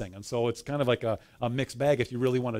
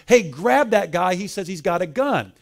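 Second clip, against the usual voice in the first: loud, high, urgent imitated shout; retold yelling; 4 semitones higher, 6 dB louder than usual. Metal detector lady alerting security guards, imitated yell. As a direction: act out raising the alarm to guards. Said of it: "And she yells at them".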